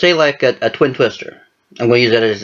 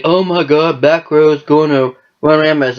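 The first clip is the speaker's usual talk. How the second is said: higher-pitched mock panic; retold alarm; 6 semitones higher than usual. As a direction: act out an exclamation of dismay. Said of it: "I was like".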